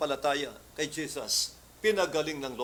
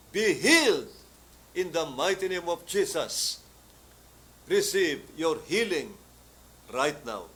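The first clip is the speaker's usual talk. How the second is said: loud, slow proclamation; healing command; 4 dB louder, slower than usual. Retold or imitated. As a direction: declare the healing with power.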